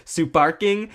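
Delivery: "Suparking" in a Japanese accent, extra u after the s. Shown as a demonstration. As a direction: say "Suparking" the Japanese way, su-par-king. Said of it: "if you say Super King in a Japanese accent".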